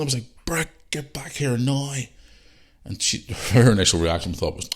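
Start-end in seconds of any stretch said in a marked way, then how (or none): 0.4-1.9 slow, high, drawn-out call; retold urgent order. Hurt dad summoning his daughter, retold urgent call. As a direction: call them back, pitched up and stretched.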